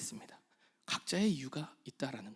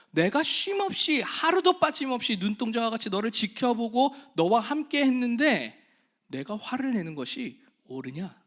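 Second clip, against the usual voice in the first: voice of God pleading; 5 semitones higher, 5 dB louder than usual. Acted.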